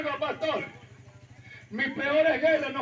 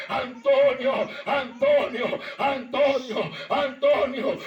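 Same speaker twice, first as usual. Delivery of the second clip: slow, solemn call, a little louder; the voice of God calling out to a man about to jump; 3 dB louder, slower than usual. Retold or imitated. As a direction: call his name slowly like God speaking. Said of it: "escuché la voz de Dios varias veces que me dijo".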